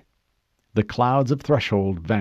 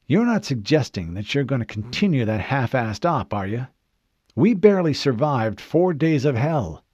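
higher, incredulous voice building in force; protesting crew member; 5 semitones higher than usual. Acted. Crew member challenging the Chief's mission, incredulous protest. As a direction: object in disbelief, gathering heat.

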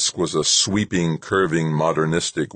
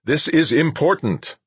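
slow, raised insistent executive; insistent Rashid; 12 semitones higher, 4 dB louder than usual. A narrator's reading. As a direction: lean on every word.

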